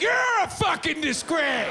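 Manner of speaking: shouting the insult back at a stranger; shouted back. Retold or imitated. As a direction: yell it right back way up high.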